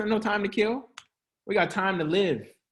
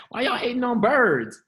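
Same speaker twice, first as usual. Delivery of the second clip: hushed unvoiced aside; breathy whispered question; 5 semitones higher than usual. Real, not acted. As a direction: whisper it like a secret joke. Aside about birds.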